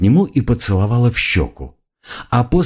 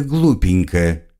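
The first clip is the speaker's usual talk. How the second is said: slow mocking drawl; slower than usual. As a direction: draw the word out slowly. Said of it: "продолжила его слова девушка".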